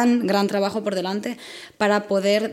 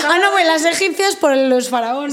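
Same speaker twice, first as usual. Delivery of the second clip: disdainful; 7 semitones higher, 4 dB louder than usual. Real, not acted. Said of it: "hablaste un poco con desprecio".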